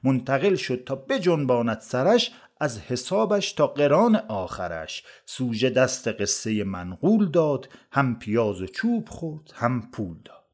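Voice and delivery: measured storytelling poem recital; verse recitation. A narrator's reading. Narrator tells a comic verse tale of onions, recited verse. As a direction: recite it as rhymed verse, leaning on the metre.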